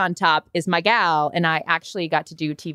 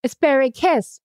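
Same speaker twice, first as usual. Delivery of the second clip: cooing echo; 6 semitones higher than usual. Pretend. Echoing the shade name.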